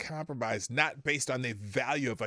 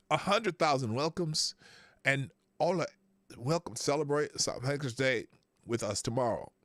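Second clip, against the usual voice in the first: faint, faltering attempt at Irish; terrible Irish accent. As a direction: badly fake a light Irish accent. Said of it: "I can't do an Irish accent".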